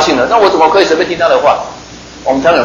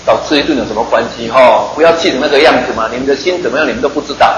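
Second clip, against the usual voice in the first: calming rebuke; 3 semitones lower than usual. Acted. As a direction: soothe the hotheads like a patient teacher. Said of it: "耶稣说".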